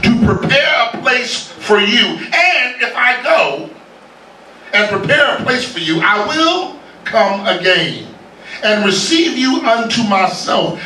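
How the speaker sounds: slow, measured reading of scripture; solemn scripture reading. Acted. Preacher reading Jesus to the congregation, slow and solemn. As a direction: let each phrase land slowly and gravely.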